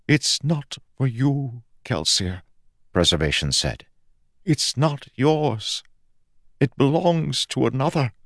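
a stern deity refusing; solemn god. Acted. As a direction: draw out each word with weight. God denies Kelsier the orb.

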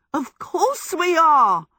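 high, loud, drawn-out cry of delight; jubilant. A narrator's reading. Michael confirms to Sophie it is his Letty, jubilant cry. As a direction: crow it with total joy. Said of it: "Michael said jubilantly".

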